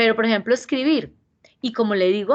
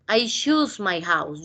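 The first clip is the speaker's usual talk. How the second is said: slow example sentence; much slower than usual. Shown as a demonstration. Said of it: "ustedes solitos practiquen".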